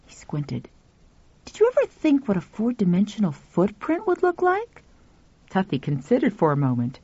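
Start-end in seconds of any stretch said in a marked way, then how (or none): 1.5-4.8 put-on boy voice. Pal voiced.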